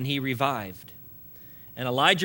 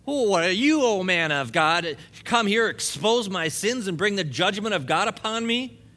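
anguished accusation; 3 semitones higher, 4 dB louder than usual. Acted. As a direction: hurl it at the prophet in grief and rage. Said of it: "directs the full force of her pain".

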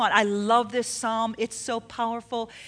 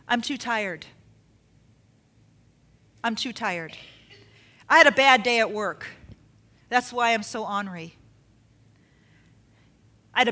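making excuses; 2 semitones lower than usual. Acted. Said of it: "one of the excuses".

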